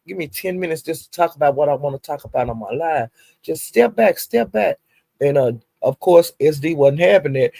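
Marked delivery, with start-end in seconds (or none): 0.1-3.1 softer, pleading "give me ten minutes"; a lightly voiced tired girlfriend; quoted plea. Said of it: "she was saying". 3.4-4.8 higher, sharp "step back"; a hint of an irritated girlfriend; quoted brush-off. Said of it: "she was saying".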